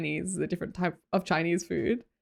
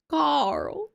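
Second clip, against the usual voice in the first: put-on higher, drawn-out hillbilly accent; attempted hillbilly accent; 6 semitones higher than usual. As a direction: stretch the name in a mock hillbilly accent. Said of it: "What's hillbilly?".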